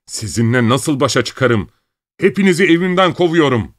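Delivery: raging at the whole family; furious. Acted. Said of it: "Sinirden gözlerinden yaş akıyordu".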